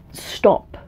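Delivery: a breathy then slow self-command; cutting herself off. Real, not acted. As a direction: rein yourself in mid-rant. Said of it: "I'm sorry. I've gone, like, way off tangent".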